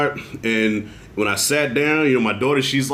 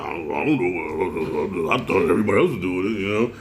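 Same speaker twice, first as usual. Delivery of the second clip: mocking Will; 8 semitones lower than usual. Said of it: "And Will's like".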